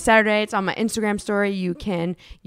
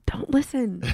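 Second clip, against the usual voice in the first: secretive whispered aside; 3 dB quieter, slower than usual. Pretend. Co-host telling partner not to listen, whispering. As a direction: whisper it so the co-host can't hear. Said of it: "I'll whisper it".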